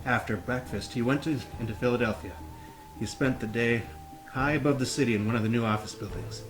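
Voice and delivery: reading while holding a plank; strained, braced from planking. Real, not acted. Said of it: "let's hold that plank".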